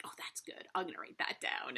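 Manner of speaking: secretive whisper, breathy and hushed; a playful conspiratorial whisper. Retold or imitated. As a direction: whisper it like a little spy taking notes. Imagined kids plotting secretly.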